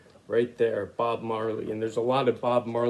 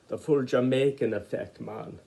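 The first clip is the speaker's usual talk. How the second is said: lightly put-on Jamaican accent, barely shifted; a quick half-hearted try at a Jamaican accent. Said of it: "That was a Jamaican accent, not a very good one".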